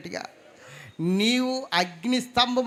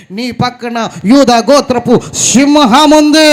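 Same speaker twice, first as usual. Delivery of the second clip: full-force preaching; 3 semitones higher, 18 dB louder, slower than usual. Acted. Preacher promising the Lion of Judah stands beside them, booming. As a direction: declare it with full power.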